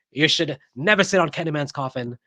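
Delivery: a light, bad Vampire in Brooklyn accent; Eddie Murphy Vampire in Brooklyn accent. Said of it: "It's a terrible Vampire in Brooklyn accent".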